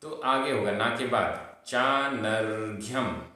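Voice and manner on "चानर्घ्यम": चानर्घ्यम drawn out slowly, r sounded after ना; slow चानर्घ्यम, clear r after the long naa; reph pronunciation. Shown as a demonstration. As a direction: say चानर्घ्यम with the reph r just before घ्य. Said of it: "जब रेफ का उच्चारण होगा".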